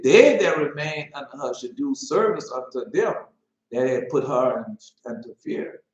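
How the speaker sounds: loud solemn scripture reading. Acted. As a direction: proclaim the verse. Rereads scripture aloud.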